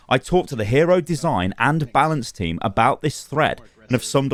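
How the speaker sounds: slow, measured read of an official post; deliberate, evenly spaced read-out; reading aloud. Acted. YouTuber reading a developer's forum post to viewers, measured read-aloud.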